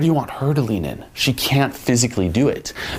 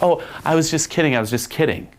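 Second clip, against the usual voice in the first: light, higher teasing reassurance; playful backtracking; 6 semitones higher than usual. Shown as a demonstration. Coach acting a reply to a chasing girl, playful. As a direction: let them off the hook teasingly.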